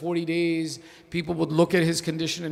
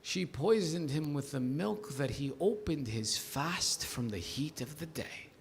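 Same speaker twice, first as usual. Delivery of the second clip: hushed narration; 4 semitones lower, 9 dB quieter than usual. Acted. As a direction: draw the listeners in quietly. Quiet opening of a mourning narration.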